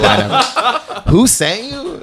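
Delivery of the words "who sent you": much higher, hammed-up question; exaggerated mock cry. Floored heckler demanding answers, exaggerated high-pitched cry. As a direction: imitate a floored guy's raised-voice demand. Replays his favorite line, exaggerated.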